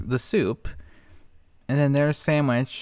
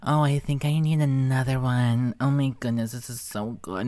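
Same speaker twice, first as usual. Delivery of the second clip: lightly voiced mock food reviewer; mocking imitation. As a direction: drag out each bite like a fake foodie. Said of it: "be like".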